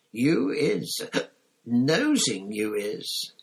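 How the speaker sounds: tipsy elf jabbing at Harry; squeaky tipsy reproach; accusing drunk elf. Acted.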